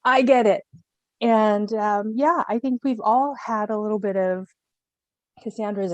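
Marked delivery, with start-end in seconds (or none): 0.0-0.6 high, drawn-out mock realization; knowing exasperation. Every woman relating to Cassandra, mock exasperated recognition. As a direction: stretch it out in pointed recognition. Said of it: "every woman in the, on the planet".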